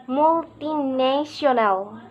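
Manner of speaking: "multinational" slowly, main stress on "na"; measured teacher's "multinational", leaning on "na"; third-syllable stress. Shown as a demonstration. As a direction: demonstrate "multinational" with a lighter first beat and the strongest on the third syllable. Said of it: "and primary stress on the third".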